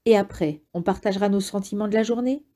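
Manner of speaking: mean, mocking question, hurried at the end; nasty sarcasm. Jonas mocking the Giver's plans, sarcastic and nasty. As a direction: sneer the question at him. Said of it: "sur un ton mauvais et sarcastique".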